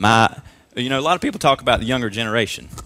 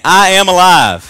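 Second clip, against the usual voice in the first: "I am alive" shouted higher and louder, slow, hitting "I"; like you mean it; 7 semitones higher, 9 dB louder, slower than usual. Shown as a demonstration. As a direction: say it like you truly believe it. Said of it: "Like you mean it".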